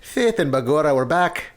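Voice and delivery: put-on a light, hammy Irish accent on the show's welcome; playful put-on Irish lilt, just a touch; mock Irish accent. Host opens the podcast episode in a mild mock Irish accent. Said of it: "Why are you doing Irish?".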